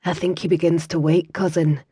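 quiet, gentle Scottish woman's voice; soft Scots lass. Acted. Kira murmurs to her cousin over the injured man, softly. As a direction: speak low over the sick man.

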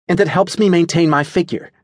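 high-pitched, self-important retort. A narrator's reading. Natasha defends her diet to Adelaide, self-importantly. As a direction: say it full of your own importance. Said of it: "said self-importantly".

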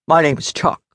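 lightly voiced gruff bear; a hint of deep, gravelly bear-man. A narrator's reading. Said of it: "said in a deep, gravelly voice".

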